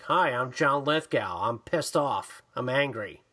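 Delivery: low, unconvincing grumpy act; deadpan mock anger. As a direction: imitate an actor phoning in his anger. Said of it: "doesn't even put on an accent".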